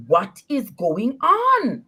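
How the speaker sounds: acting out a baffled question, each word stretched; retold bewilderment. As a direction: ask it in drawn-out disbelief. Retold alarmed phone call to friend.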